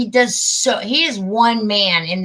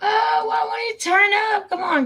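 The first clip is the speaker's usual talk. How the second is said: high, crying whine of frustration; near-tearful moan at the silent video; whiny cry; 13 semitones higher than usual. Real, not acted. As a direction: plead with the broken volume. Volume fails again.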